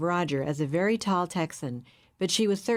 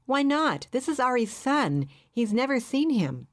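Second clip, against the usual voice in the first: upset protest; 7 semitones higher than usual. A narrator's reading. Nicole protesting about the baby.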